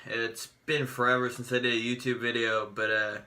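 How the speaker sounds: speech a bit off from new braces; talking with braces. Real, not acted. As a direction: talk around fresh braces. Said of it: "I have braces in now".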